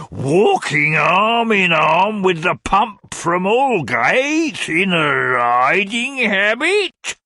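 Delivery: high, very slow, swooning cry; lovesick old gentleman. A narrator's reading. Old gentleman wooing Mrs Nickleby, swooning. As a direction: croon it like a mad suitor.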